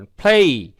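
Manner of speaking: "play" with an aspirated p, gliding to ay; model pronunciation. Shown as a demonstration. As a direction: teach "play" as a careful "phlay". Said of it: "এবং এই উচ্চারণ করবেন".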